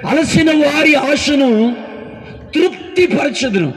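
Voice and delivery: drawn-out verse, stretched first word; slow reading of verse. Shown as a demonstration. Preacher reading the verse aloud to the church, slow. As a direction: read the promise slowly, leaning on అలసిన. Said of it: "సరే".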